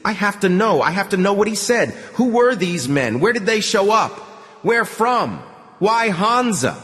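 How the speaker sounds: high, pressing questions; desperate questioning. Acted. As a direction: demand answers urgently.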